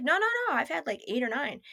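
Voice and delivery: high, insistent string of no's, then settling; mock defensive boyfriend; defensive protest. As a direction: imitate someone protesting defensively. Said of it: "he would get really defensive".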